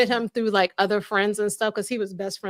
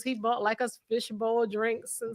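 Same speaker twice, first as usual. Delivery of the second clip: smiling while talking; slower than usual. Real, not acted. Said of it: "You can hear the smile in your voice about it".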